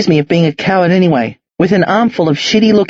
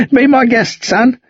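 put-on higher, amused old Aussie; jolly old man; 7 semitones higher than usual. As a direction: chuckle it out, generous old bloke. Jack laughs, offers peaches.

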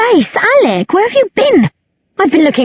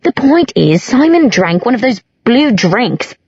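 high, tipsy indignant whine; high-pitched, defensive complaint; 5 semitones higher than usual. A narrator's reading. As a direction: protest it in a high drunken voice. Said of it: "Isabel said indignantly".

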